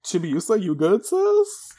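hammed-up bro voice; casual big brother. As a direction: ask like a chill older brother. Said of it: "he's like".

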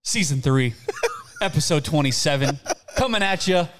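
laughing through the episode intro. Real, not acted. Host laughing while opening the episode, giggly. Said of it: "laughing intro".

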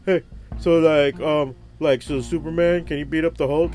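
annoying customer. Acted. Shop owner mimicking an irritating customer, mock pesky voice. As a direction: put on a halting, pestering fanboy question. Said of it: "next asshole that comes in and be like".

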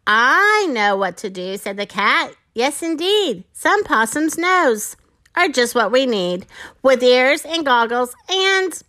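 measured, singsong storytelling; children's story reading. A narrator's reading. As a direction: read a rhyming picture book to young listeners. Reads a rhyming children's story aloud.

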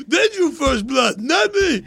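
slow, drawn-out slurred hero impression; hammed-up mumbling veteran, rising in pitch; Stallone. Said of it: "it was like this".

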